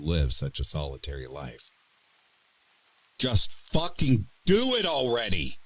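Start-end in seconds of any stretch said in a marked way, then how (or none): 3.2-5.6 high desperate scream at the mirror; shrieking at yourself in the mirror. Acted. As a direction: scream it at your own reflection. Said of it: "I scream at the face in the mirror".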